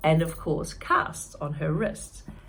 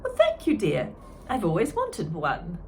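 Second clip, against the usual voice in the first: hide the confusion politely; elderly June politely hiding bafflement; polite old lady; 3 dB louder than usual. Acted. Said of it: "tried to hide it".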